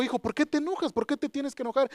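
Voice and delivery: acting God gently questioning a son. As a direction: lift the pitch, question without scolding. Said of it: "la voz de Dios que me dijo".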